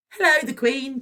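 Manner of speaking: grinning, eager hello; chirpy. A narrator's reading. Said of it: "chirped Virgo with a big grin".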